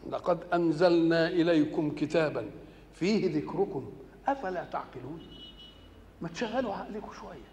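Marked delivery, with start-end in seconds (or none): 0.1-5.2 slow, measured chanting of the verse; solemn tajweed-style recitation; Quran recitation. Acted. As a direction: recite it with reverent, drawn-out care.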